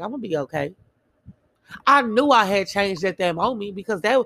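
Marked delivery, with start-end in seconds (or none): 0.0-0.7 softer, lower, steady reassurance; calm self-reassurance. Retold or imitated. Car broke down, she calmly reassures herself, soft. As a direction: settle yourself down with it. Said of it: "I was just like".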